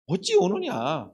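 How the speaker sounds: slow, stretched "어찌 우느냐" as a gentle husband; tender husband voice. Retold or imitated. A husband gently consoling his weeping wife, slow and tender. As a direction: draw out the comfort like a loving husband. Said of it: "남편이 뭐라고 이야기합니까".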